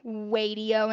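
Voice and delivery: wadio with a W in place of the R. Shown as a demonstration. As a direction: say wadio like a small child. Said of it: "wadio instead of radio".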